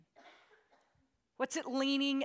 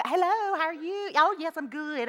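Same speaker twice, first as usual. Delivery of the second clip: higher, polite phone voice; professional phone voice; 7 semitones higher, 9 dB louder than usual. Retold or imitated. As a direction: sound calm and businesslike on the call. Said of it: "trying to be professional on the phone".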